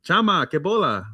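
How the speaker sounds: Cuban Spanish slang greeting; Cuban accent. Pretend. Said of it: "That's, like, super Cuban".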